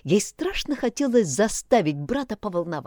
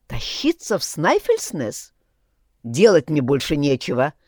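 shouting into phone; 2 semitones lower than usual. Acted. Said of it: "орал в трубку".

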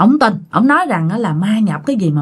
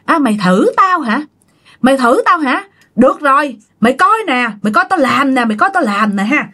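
retold challenge; 4 semitones higher than usual. Possessed man challenges ông Hai.

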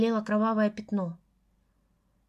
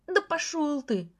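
higher, slow defiant snap; defiant retort; 5 semitones higher, slower than usual. A narrator's reading. Гриня snaps back at Лёша, defiant. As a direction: throw it back at him.

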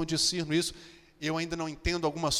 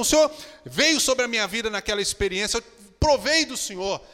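fervent testimony; 4 semitones higher, 3 dB louder than usual. Acted. Believer answers God in prayer.

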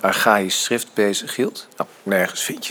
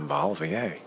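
softer, lower whisper, full of feeling; moved whisper; 6 semitones lower, 7 dB quieter than usual. Acted. Father answering his son, a soft whisper. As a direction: let it fall to a tender whisper.

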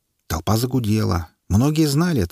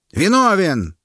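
much higher, louder cry of guilty; loud shout; 10 semitones higher, 4 dB louder, slower than usual. A narrator's reading. Loud-voiced onlooker shouting guilty. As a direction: bellow the verdict. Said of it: "крикнул особо голосистый".

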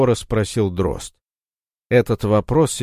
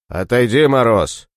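louder, hard warning; threatening; 3 semitones higher, 4 dB louder than usual. Acted. Дрозд угрожает Морозу ножом, грозно. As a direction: hold the knife and warn him off. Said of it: "уже угрожающе произнёс он".

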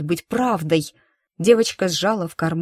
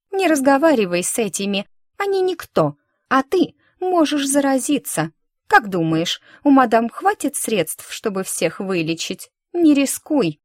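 put-on bossy girl; 3 semitones higher than usual. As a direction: hurry her away, fussy and superior. Friend drags Yara away.

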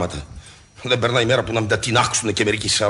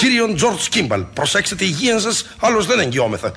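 slow, higher, formal telegram read; mock telegram voice; 7 semitones higher than usual. Husband to wife, mimicking nature's warning telegram, slow and formal. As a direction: read it like a stiff official warning. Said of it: "σαν τηλεγράφημα η φύσης".

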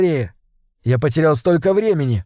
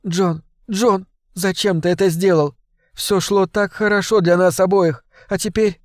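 higher, tearful pleading woman; tearful Sarah; 5 semitones higher than usual. Acted. Sarah pleads with John on the phone, tearful. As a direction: plead with him, close to tears. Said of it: "Она плакала?".

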